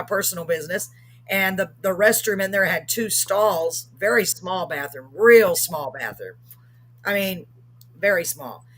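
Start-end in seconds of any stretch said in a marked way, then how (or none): 5.1-6.4 "real" drawn out and punched louder; stress on REAL. Real, not acted. Telling listeners about the tiny restroom, stress on "real". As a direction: lean hard and slow on "real".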